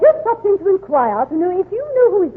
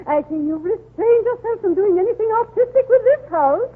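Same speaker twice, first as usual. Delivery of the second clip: snooty jab; 7 semitones higher than usual. Acted. Snooty put-down of McGee.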